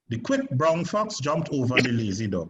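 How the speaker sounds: "quick" lifted, sentence run through unbroken; stress on quick and lazy. Shown as a demonstration. Teacher cues the student's turn, stressing "quick". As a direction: lean on "quick" and "lazy" without pausing. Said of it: "I want you to emphasize quick".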